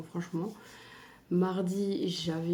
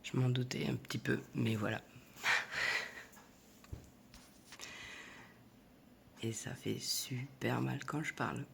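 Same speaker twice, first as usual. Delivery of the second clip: extinction de voix, enrouée et grave; voix cassée; 7 semitones lower, 8 dB quieter than usual. Real, not acted. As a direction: parler sans voix, la gorge prise. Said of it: "j'ai plus de voix en fait". (voix éraillée par une extinction de voix)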